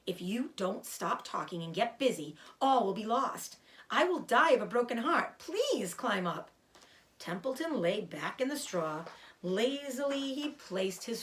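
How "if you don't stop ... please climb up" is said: pleading pig near tears, slowing; despairing. Acted. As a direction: beg in despair. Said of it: "said Wilbur in despair".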